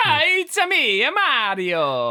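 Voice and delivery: slow, drawn-out Mario voice; lightly voiced Italian plumber. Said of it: "the hara hara stuff".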